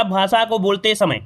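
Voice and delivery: slight halt right after "समय"; brief pause after phrase. Shown as a demonstration. Teacher showing students the rise and fall of speech, brief pause after phrase. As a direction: say "भाषा को बोलते समय", then stop briefly. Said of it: "थोड़ा सा हमने stop लिया".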